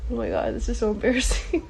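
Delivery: fast, laughing at herself through tears; embarrassed laugh. Real, not acted. Woman on a live video laughing off her tears, embarrassed laugh.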